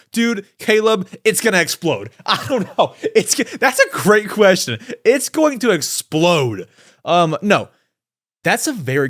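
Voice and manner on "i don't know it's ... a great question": chuckling through the words; laughing. Real, not acted. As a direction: laugh it off, amused. Laughing at the question.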